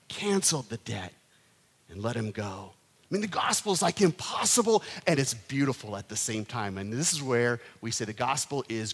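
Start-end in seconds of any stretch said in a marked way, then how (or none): 0.1-2.7 whispered, hushed. Acted. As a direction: let the mercy land in a whisper.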